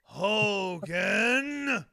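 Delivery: very slow, high, loud promo shout; Sergeant Slaughter cadence. Retold or imitated. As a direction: bellow each word with endless pauses. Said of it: "but of his cadence".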